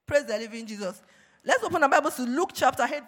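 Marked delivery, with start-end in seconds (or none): 1.4-3.1 raised preaching voice, louder; loud opening. Real, not acted. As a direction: call the congregation to open Bibles. Preacher opens service, loud.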